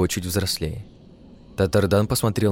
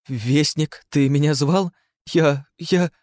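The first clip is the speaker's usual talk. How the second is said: put-on scared child; 7 semitones higher, slower than usual. Frightened child faces hero.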